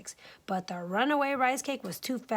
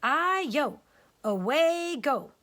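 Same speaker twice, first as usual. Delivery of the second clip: higher cheeky cake voice, slow; higher teasing cake cry; 5 semitones higher, slower than usual. Acted. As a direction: taunt as you roll away. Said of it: "It cried".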